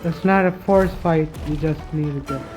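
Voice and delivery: usual speaking voice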